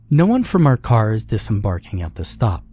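brisk announcement with a smile; smiling announcement. A narrator's reading. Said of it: "announced with a smile".

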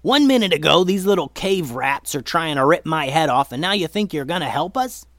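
loud, high-pitched rant; indignant shouting that eases slightly; outraged yelling. Acted. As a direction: rant in disbelief, starting at full shout. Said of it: "yelled Momo".

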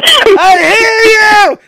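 high drawn-out yell. Retold or imitated. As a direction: shout it back, exasperated. Imitating Sam yelling at pages.

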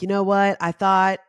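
mock indignant outburst; frustrated rant. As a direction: vent it like you've been cheated. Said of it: "I'm like".

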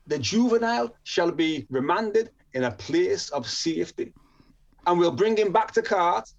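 measured ruling in a put-on Jamaican accent; awful Jamaican accent. Court remands the juvenile, imitated Jamaican accent. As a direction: pronounce it officially, in a mock Jamaican accent. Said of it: "my Jamaican accent's awful".

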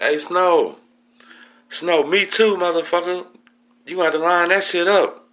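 very high, loud taunting holler; imitated yelling. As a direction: mimic another inmate yelling a challenge. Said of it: "they're yelling back and forth in the vent".

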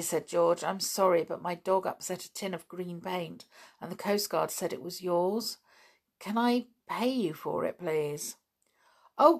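put-on reading a children's book aloud; storybook reading voice; story narration. A narrator's reading. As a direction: tell the story evenly to young listeners.

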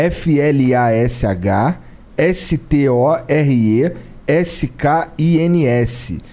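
slow letter by letter; spelling it out. Shown as a demonstration. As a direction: spell the handle out one letter at a time. Spells the store's Instagram handle.

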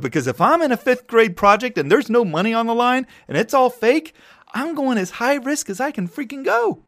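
worked-up, high-pitched rant; emphatic and very high. Real, not acted. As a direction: let the voice climb way up high. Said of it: "voice gets really high".

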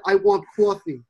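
mock Jersey accent, "coffee" as "cwawfee". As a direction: parody the Jersey "coffee" with a rounded aw. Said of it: "I've never once in my life ever said".

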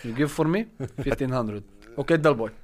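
lightly put-on foreign-accented bag seller; Jose Mourinho. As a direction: haggle in a mock Portuguese accent. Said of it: "I'm doing Jose Mourinho".

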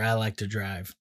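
a touch of Texas twang; Texas accent. Real, not acted. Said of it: "slipped into my Texas".

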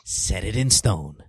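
slow, solemn mock decree; town crier. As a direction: pronounce it like a royal edict. Mock proclamation on birthday.

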